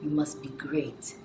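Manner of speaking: imitated Ghanaian mother setting expectations; lightly put-on Ghanaian accent; mother's Ghanaian accent. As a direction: lay down the law with a hint of Ghanaian accent. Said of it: "She would say".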